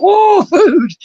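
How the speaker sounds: high, eager cry of a hungry pet; excited pet tegu. Acted. Owner voicing a hungry Tegu as the door opens, excited. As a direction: squeal it, thrilled to be fed. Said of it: "she's like".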